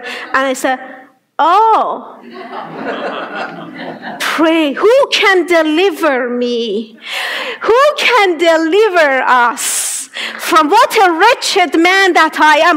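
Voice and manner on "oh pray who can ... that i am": pleading prayer. Retold or imitated. Retells a desperate prayer.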